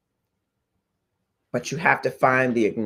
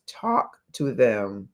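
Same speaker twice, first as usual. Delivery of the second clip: slow quoted advice. Retold or imitated. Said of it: "He says".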